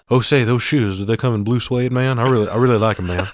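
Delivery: loud, cheesy singer-impersonator voice; mock rock-and-roll-singer chatter. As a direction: ham it up as a bad impersonator of a famous singer. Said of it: "This guy is also not good at being a famous singer".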